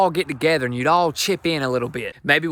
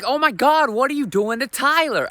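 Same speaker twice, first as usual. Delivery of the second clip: panicked wife; 9 semitones higher than usual. Retold or imitated. Comic voicing the shocked wife catching him hurting Tyler, high panicked shriek. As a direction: shriek in alarm as the upset girlfriend.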